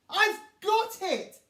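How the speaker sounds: bright, loud and high with delight; excited cry. A narrator's reading. Rhino having an idea, cries out excitedly. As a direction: burst out with a happy idea. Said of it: "he cries".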